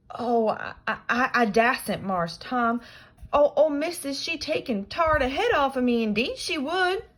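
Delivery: high, loud stammering fear; scared Jim. Acted. Jim dreading Aunt Polly's punishment, high and scared. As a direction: stammer out your fear of missus.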